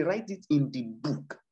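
"Write it in the book" drawn out slowly and firmly; deliberate "Write it in the book", each word given its own weight; slow emphasis. Real, not acted. Preacher repeating an instruction to listeners, "Write it in the book" slowly emphasized. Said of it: "I'm, I'm emphasizing it".

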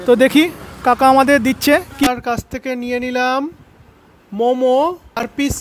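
muffled behind surgical mask; masked speech near microphone; through a face mask. Real, not acted. Seen 3: Man in yellow shirt wears blue mask while talking into handheld mic.

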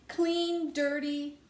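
high, sustained, level notes; drawn-out musing. Acted. Pigeon arguing about clean and dirty, drawn-out musing. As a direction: stretch each word out, held high. Pigeon argues the words mean nothing.

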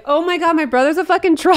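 high, laughing shock at the reveal; half-laughed, squealing realization; laughing disbelief. Retold or imitated. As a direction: crack up while saying it. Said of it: "And I was like".

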